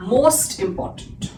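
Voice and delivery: very slow, careful superlative form; slow teaching read. Shown as a demonstration. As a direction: draw out most important word by word. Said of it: "और ये हो जाता है". (बहुत धीमे, ज़ोर देकर most important)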